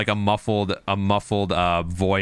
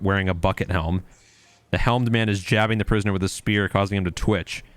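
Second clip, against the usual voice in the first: steady descriptive read-aloud; scene narration. Acted. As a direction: set the scene like a game master.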